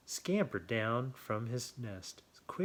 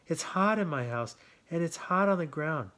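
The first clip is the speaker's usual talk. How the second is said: a higher, louder rabbit complaining; a hot little rabbit grumbling, pitched up; 5 semitones higher, 6 dB louder than usual. A narrator's reading. Rabbit complains to buzzard, higher louder voice.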